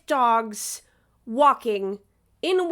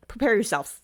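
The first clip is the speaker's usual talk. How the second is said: laughing warning; 2 semitones lower than usual. Real, not acted.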